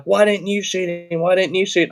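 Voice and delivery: put-on a kid whining at dad; voicing the daughter. Daughter complains he didn't shoot.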